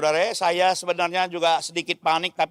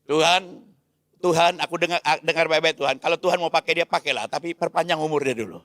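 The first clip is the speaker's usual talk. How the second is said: earnest, urgent plea; a father bargaining with God for his son; pleading prayer to God; 3 semitones lower than usual. Retold or imitated. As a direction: beg God, hands open, voice pressing. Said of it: "Ya, kesian dia".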